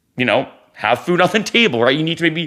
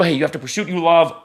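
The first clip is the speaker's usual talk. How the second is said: mild mock yell, higher, building louder; half-shouted retold exhortation, pitched up; mock screaming; 3 semitones higher, 3 dB louder, faster than usual. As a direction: imitate a preachy yell, peaking on "go all out". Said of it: "kinda screaming at people".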